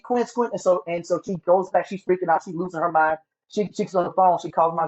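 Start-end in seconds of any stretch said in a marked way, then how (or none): 0.0-0.5 imitated calling out. Mother calling for her missing son, imitated calling out. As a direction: mimic mom calling a name, pitched up. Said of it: "And she's calling me".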